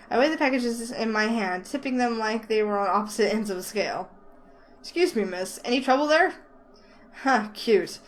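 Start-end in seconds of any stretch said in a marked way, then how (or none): 4.8-6.3 put-on light southern accent, friendly clerk. Clerk Ted offering help in a light southern accent. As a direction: ask in a mild southern accent. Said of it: "speak to me with a southern accent".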